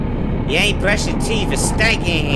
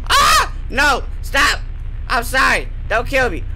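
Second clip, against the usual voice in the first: high frantic pleading; panicked begging; 5 semitones higher than usual. Real, not acted. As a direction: beg for your life. Begging monster not to kill.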